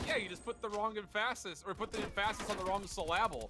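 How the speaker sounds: high, EMPHASIS as "em-FASS-is", SYLLABLE as "suh-LAB-ul"; deliberate mispronunciation. Retold or imitated. Caster retells a zinger, high, stressing emPHAsis and sylLAble wrongly. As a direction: shift the stress in EMPHASIS and SYLLABLE onto their second syllables. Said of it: "it's a joke zinger line".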